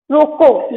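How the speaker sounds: रोको alone, falling into a stop; pause after रोको. Shown as a demonstration. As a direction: say रोको and leave a gap. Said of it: "रोको के बाद अल्प विराम".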